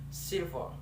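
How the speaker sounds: "silver" falling away after a stressed first syllable. Shown as a demonstration. Student repeating "silver" to show first-syllable stress. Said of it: "The stress in the first".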